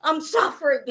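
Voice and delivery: high, weak voice left over from laughing; real laughter still bubbling up; laughing to tears. Real, not acted. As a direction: squeeze words out between giggles. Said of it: "laughing so hard that I'm fucking crying".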